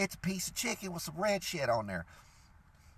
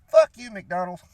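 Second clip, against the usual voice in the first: loud mock-furious fuck you; angry shout; 2 semitones higher, 9 dB louder than usual. Real, not acted. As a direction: yell it out, fed up. Angry outburst at McDonald's.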